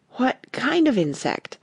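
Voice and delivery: mildly anxious inquiry; a little anxious. Acted. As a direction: ask with a touch of anxiety, drawn out. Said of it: "Alice inquired a little anxiously".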